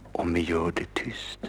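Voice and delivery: soft conspiratorial whisper. Acted. Jaffa reassures Fy about playing quietly, whispering. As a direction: keep it secret, barely a breath. Sneaking onto piano at night.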